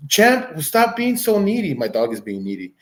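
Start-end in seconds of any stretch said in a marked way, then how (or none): 0.1-1.7 higher, exasperated scold at the dog; higher mock scold. Real, not acted. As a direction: tell the pup off, mock-exasperated.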